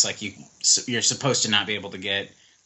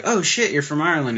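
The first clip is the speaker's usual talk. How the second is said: mock surprise, pitched higher; surprised realization; 5 semitones higher than usual. Customer reacting to the German's Irish accent, mildly mock surprised. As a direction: act out a listener's sudden realization.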